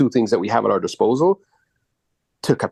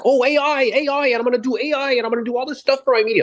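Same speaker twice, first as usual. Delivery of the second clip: much higher, fast airheaded parody; mocking the AI crowd; 14 semitones higher, faster than usual. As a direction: rattle it off like a giddy hype follower. Mocking everybody hyping AI.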